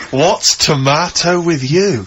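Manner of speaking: slow amused repeat. Retold or imitated.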